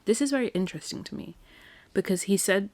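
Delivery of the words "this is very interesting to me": musing. Retold or imitated. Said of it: "I was like".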